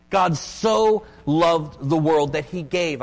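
"so" stretched out slowly before "loved"; stress on SO. Real, not acted. Preacher stressing God's love for the world, SO drawn out. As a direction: lean long on "so", slow and deliberate. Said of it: "the so, if you want to circle it".

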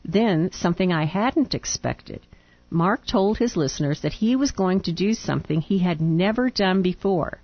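reading a letter aloud. Real, not acted.

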